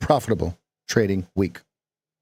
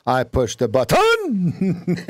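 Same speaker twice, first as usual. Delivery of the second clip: slow, higher mock French accent; 6 semitones higher, slower than usual. Shown as a demonstration. American faking a French accent, higher. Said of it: "how Americans think that French speak".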